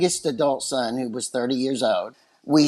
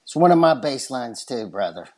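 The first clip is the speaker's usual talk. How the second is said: West Texas accent; 3 semitones lower, faster than usual. Real, not acted. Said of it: "it's coming with a West Texas accent".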